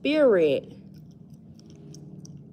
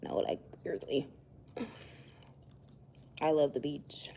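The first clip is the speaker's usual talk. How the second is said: whisper; 7 semitones lower, 13 dB quieter than usual. Real, not acted.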